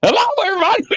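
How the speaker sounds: high, bright-sounding show-host hello; mock TV host greeting; imitating a TV host. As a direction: greet them like a TV presenter. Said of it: "like that dude on, uh, The Pulse".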